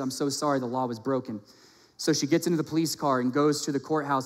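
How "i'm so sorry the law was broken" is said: understated voicing of a regretful officer; sympathetic officer. Police officer answers the begging girl, mildly regretful. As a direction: apologize evenly, letting it sink at the end. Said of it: "He said".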